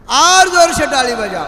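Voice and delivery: a lighter replay of the showman's shout; snake charmer's call. Retold or imitated. Preacher repeating the snake charmer's call, lighter. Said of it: "गारुडी असाच ओरडतो का?".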